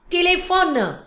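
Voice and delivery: TELEPHONE as "tay-lay-FON-nuh"; French telephone with clear é sounds, high start; French pronunciation. Shown as a demonstration. Teacher showing learners her pronunciation, French pronunciation. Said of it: "my pronunciation is telephone".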